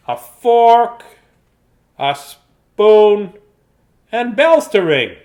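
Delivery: cheerful storybook mouse showing off the house. Acted. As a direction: chirp it out like a little mouse. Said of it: "this is the mouse voice there".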